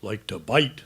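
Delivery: slow, halting admission; hesitant hint. Acted. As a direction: edge shyly toward a delicate subject. Hesitant, shy hint about biting.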